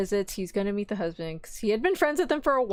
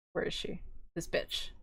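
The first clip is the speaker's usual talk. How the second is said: whisper; 3 semitones lower, 11 dB quieter than usual. Real, not acted. Muttering at screen while searching.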